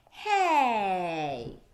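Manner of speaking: loud, sudden cry; startled hey. Acted. Beast being ambushed, crying out loud. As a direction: shout it like you're caught off guard.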